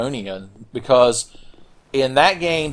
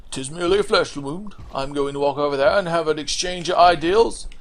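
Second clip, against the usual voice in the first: acting cool; 5 semitones higher than usual. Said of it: "He's trying to act cool".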